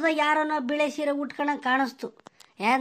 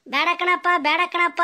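pleading; 4 semitones higher than usual. Retold or imitated. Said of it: "ಅಂತ ನಾನು ಬಡ್ಕಂಡೆ".

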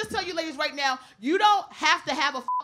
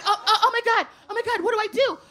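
panicked; 4 semitones higher than usual. Retold or imitated. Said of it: "Amber's like".

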